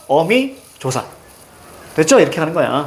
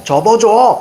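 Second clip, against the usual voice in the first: slow mnemonic; 2 semitones higher, much slower than usual. Shown as a demonstration. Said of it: "이렇게 외워도 되겠지만".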